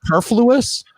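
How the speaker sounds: superfluous with a New Hampshire twang; New Hampshire accent. Real, not acted. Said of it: "New Hampshire accent saying superfluous".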